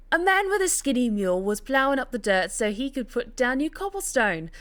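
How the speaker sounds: hammed-up fake Cockney storytelling; bad Cockney. Narrator rereading the tale on request, in bad Cockney. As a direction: narrate in a badly faked Cockney accent. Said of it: "To, to do the bad Cockney accent".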